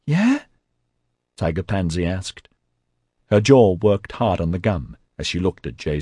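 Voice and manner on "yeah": very high rising squeak; high-pitched, squeaky. A narrator's reading. Tiger Pansy asks about the job, squeaky. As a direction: ask it in a squeaky, hopeful rise.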